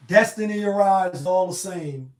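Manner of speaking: loud dramatic Thanos impression; Thanos quote. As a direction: proclaim it like a doomed fate. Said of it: "how Thanos said".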